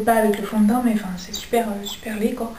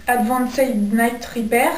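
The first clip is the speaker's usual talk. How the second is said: slow, deliberate English accent on the product name; much slower than usual. Shown as a demonstration. Showing off her English accent on a serum name, slow English accent. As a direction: say the brand name like a native English speaker, taking your time. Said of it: "Vous l'aimez mon accent anglais".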